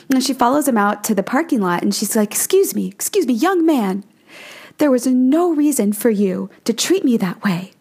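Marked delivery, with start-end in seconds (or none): 2.3-7.7 higher, pleading Southern housewife; a mildly whiny, polite Southern woman scolding a punk; whiny shrill voice. Retold or imitated. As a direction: hold it together while complaining, voice pitched up. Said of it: "in that whiny, shrill voice".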